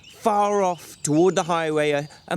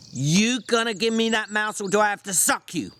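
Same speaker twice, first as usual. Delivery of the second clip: coldly; 7 semitones higher than usual. A narrator's reading. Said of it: "George said coldly".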